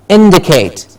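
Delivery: "indicate" with weight on IN; falling IN-di-cate; stress on IN. Shown as a demonstration. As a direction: say "indicate" hitting the first syllable. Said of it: "The in gets the stress".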